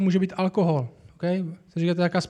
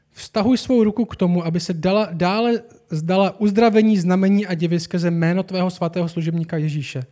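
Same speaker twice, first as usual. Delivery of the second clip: solemn reading of the verses aloud; reading the apostles' prayer to the church, slightly raised; scripture reading; 4 dB louder than usual. Acted. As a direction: read out a touch louder, like a prayer. Reads the prayer from Acts.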